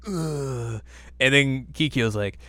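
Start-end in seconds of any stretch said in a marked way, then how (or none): 0.1-0.8 slow, drawn-out brooding complaint; mock villain whine. Villain lamenting the marks on his body, slow mock whine. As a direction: moan it slowly, ending in a disgusted groan.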